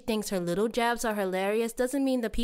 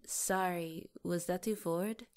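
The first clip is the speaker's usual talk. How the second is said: sheepish backpedal; 7 dB quieter than usual. Acted. Worried she was too forward.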